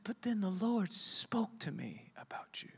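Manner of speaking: hushed secret whisper. Retold or imitated. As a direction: breathe it like a holy secret. Old lady's solemn revelation.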